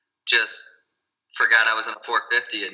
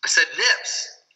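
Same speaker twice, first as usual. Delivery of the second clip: slow, higher correction on "nips"; stress on nips; 4 semitones higher, much slower than usual. Real, not acted. Guest repeats himself to the host who misheard, "nips" slowly stressed. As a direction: draw out "nips" to set it straight.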